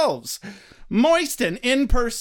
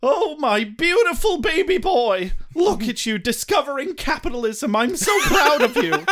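proud mom praising Joshua; doting mom; 5 semitones higher than usual. Pretend. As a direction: gush over your baby boy.

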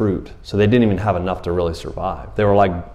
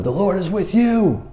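high, booming angel voice, pitched way up; angel yelling; 10 semitones higher than usual. Retold or imitated. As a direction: proclaim it like a heavenly herald. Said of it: "And he yells at him".

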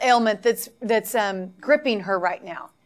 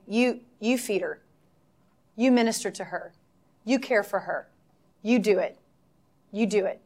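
softer, low and steady urging; God's gentle command; 3 semitones lower, 6 dB quieter than usual. Retold or imitated. Preacher voicing the Lord urging her, soft firm command. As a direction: press it home quietly. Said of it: "And Lord saying".

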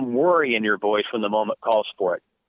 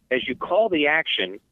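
ordinary talk, nothing marked

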